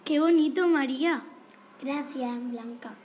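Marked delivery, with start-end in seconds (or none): 0.0-1.2 bright, loud burst of delight; a loud delighted compliment to a classmate; excited praise. Real, not acted. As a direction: cheer her on loudly. Host praises the poem.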